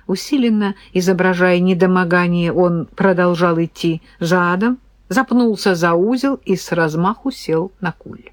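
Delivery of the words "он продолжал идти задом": plain reading voice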